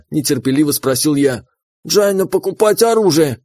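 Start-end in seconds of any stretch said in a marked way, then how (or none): 1.9-3.4 higher, raspy smoker's voice little mole; smoker's rasp. Acted. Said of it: "прокуренным голосом ответил Крот".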